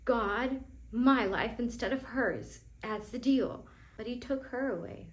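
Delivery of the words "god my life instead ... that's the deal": louder, insistent bargaining with God; angry demand. Retold or imitated. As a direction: hammer out the deal with God. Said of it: "I was so clear".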